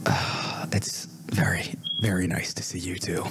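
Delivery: hushed whisper back; whispered reply. Acted. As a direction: answer in a whisper.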